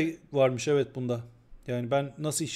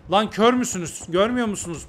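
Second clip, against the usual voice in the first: louder, higher exasperated yelling; angry outburst; 4 semitones higher, 4 dB louder than usual. Real, not acted. Streamer yelling at fans who ignore his warnings, angry. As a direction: shout it at the blind fans.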